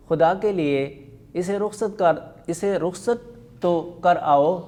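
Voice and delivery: voicing husband and wife in turn, lively; reading a play aloud. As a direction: read the dialogue to the class with light character voices. Teacher reads a comic play aloud.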